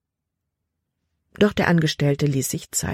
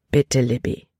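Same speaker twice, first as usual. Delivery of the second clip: gentle but firm; 4 semitones lower than usual. A narrator's reading. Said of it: "Kapitän Norstads Stimme war sanft".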